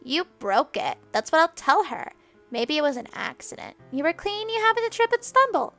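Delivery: loud, rising, gloating blame with stress on still and all; scheming taunt. Acted. Spoiled girl gloats, pinning the blame on the maid. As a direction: gloat as you pin the blame.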